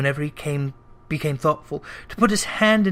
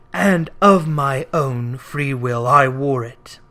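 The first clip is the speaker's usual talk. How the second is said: doomed ghost; slower than usual. Acted. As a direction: speak as one bound by chains. Ghost voice held.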